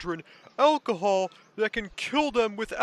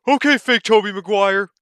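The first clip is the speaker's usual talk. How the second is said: overacted anime dub; 10 dB louder than usual. Loud mocking retort.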